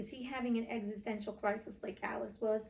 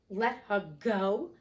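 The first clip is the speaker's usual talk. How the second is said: louder, slow disbelieving cry; 6 dB louder, much slower than usual. Acted. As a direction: let it burst out in disbelief. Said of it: "cried Hook".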